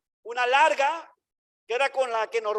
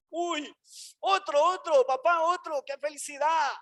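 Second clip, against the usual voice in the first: mock delighted child; 4 semitones higher than usual. Mocking happy punished child.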